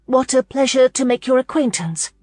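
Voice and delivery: high, loud strained politeness; rasping. A narrator's reading. Flustered Lauren greets the Duke, voice strained. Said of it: "she heard herself rasp".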